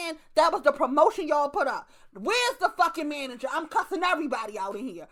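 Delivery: angry customer rant. Retold or imitated. Tired cashier cussing out the tire shop, indignant. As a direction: storm the counter demanding the manager.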